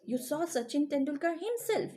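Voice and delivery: "himself" lifted in pitch for emphasis; emphatic "himself" at the end; stress on himself. Shown as a demonstration. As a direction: lean on "himself" to point up Sachin Tendulkar. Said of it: "giving more stress on the object".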